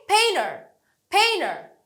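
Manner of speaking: পেইনার with high, strong পেইন; stress on root word. Shown as a demonstration. Teacher drilling derived words, পেইনার stressed on পেইন. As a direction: hit পেইন, drop away on the end of পেইনার. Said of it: "main ওয়ার্ডটাতে আমরা সবসময় stress দিই".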